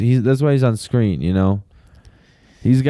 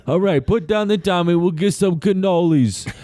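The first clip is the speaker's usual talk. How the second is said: mock pleading mobster; 5 semitones higher than usual.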